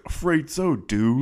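high start dropping on the last word; sarcastic. Retold or imitated. Host quoting the coach talking to kids, sarcastic. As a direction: imitate a coach's mocking reply. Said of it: "like, very sarcastically".

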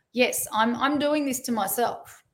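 empowered ownership. Shown as a demonstration. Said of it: "you say it in an empowered, taking ownership way".

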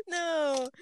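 loud, high rapid noes; high panicked protest. Real, not acted. Friend begging Ava not to quit, loud and high. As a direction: beg her not to leave.

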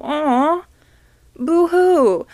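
high, loud mocking boo-hoo; mock pity. Mocking her own whining to listeners, mock sob. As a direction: wail it like a fake crybaby. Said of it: "I know I sound like such a bitch".

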